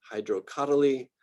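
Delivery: hydrocotyly with the beat on COT; stress on third-to-last syllable. Shown as a demonstration. Lecturer showing students genus names, antepenultimate stress on hydrocotyly. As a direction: hit COT in hydrocotyly, then let two syllables follow. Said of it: "pronounce that as the emphasized syllable".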